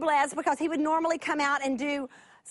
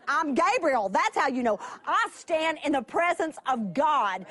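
the angel insisting on his rank; offended angel. Retold or imitated. Gabriel answering doubting Zechariah, mildly indignant. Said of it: "there's almost that, like".

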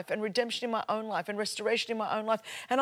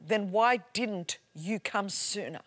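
slow echoing words; slower than usual. Retold or imitated. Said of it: "word resounding".

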